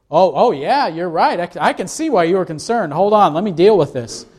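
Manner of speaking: lightly hammed-up obliging agreement; mock understanding. Jesus imagined placating the disciples, mock understanding. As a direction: humour them, with a lilting "oh yeah".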